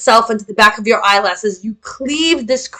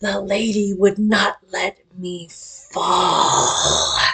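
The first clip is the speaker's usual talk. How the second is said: soft, husky creature voice; 3 semitones lower, 7 dB quieter than usual. Running a game, voicing a creature that speaks before it attacks; husky voice. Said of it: "you hear this husky voice".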